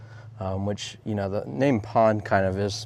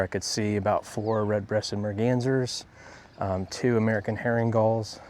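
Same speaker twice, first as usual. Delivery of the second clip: slightly winded from fast walking; out of breath. Real, not acted. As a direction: talk while catching your breath. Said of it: "I'm out of breath a little bit from walking so fast".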